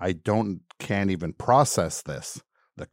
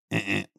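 harsh error buzz; 5 dB quieter than usual. Retold or imitated. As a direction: imitate a rejecting beep. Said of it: "And all I hear".

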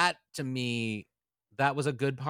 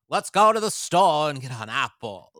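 louder mock Katharine Hepburn lilt; transatlantic accent; 2 semitones higher, 9 dB louder than usual. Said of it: "you can't not".

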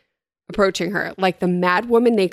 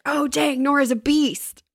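surprised; 8 semitones higher than usual. Retold or imitated. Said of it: "I was like".

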